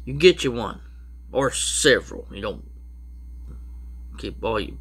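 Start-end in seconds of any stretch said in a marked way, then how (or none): 2.3-4.8 talking through a yawn; yawny, sleepy words. Real, not acted. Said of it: "I don't know why I'm yawning".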